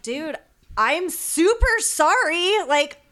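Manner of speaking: sorry but fed up; exasperated apology. Retold or imitated. To the angry driver she rear-ended, exasperated.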